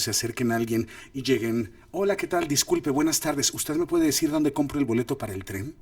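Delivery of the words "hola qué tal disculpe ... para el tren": lightly raised, courteous traveler's greeting; friendly polite approach. Acted. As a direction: approach a stranger with harmless politeness. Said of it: "va a entender que no vienen a pelear".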